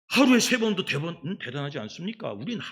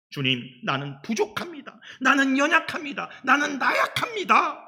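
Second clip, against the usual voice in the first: tearful confession; 8 semitones higher, 4 dB louder than usual. Acted. Voicing a confessing prayer.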